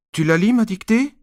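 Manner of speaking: put-on insistent child. Nicolas pesters dad to read his dictation, high insistent.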